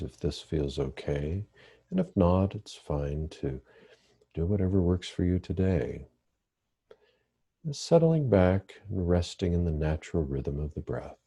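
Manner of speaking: calm, measured meditation guidance with long pauses; guided meditation. Real, not acted. Therapist leading listeners through breathing meditation, calm guided meditation. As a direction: guide listeners gently into the breath, leaving space between phrases.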